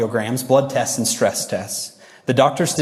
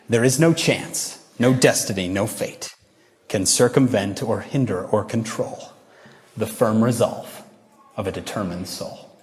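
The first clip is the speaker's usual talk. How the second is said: poem recitation. Acted. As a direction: recite it deliberately, word by word.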